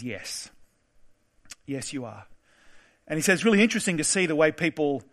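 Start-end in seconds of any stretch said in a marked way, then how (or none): 0.0-2.3 much softer and lower, gently breaking news; gentle truth. Retold or imitated. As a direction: tell the dying man softly, gently. Paramedic gently tells dying patient.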